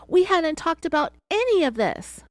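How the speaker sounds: high-pitched, wailing imitation of protest; mock crying out. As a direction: cry out in a put-on whine. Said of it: "She cried out".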